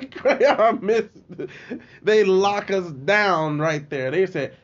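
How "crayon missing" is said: slow laughing repeat. Real, not acted. Repeats phrase slowly while laughing.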